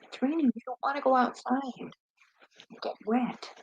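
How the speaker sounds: soft, coaxing pet talk. Real, not acted. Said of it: "To him like he's a two-year-old".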